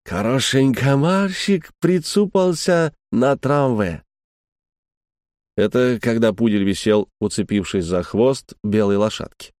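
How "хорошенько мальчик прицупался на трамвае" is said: put-on slow, careful French-accented Russian; French learner's Russian. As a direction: labour through Russian words with a French accent. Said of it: "долбил ему русские слова". (старательный французский акцент, медленно)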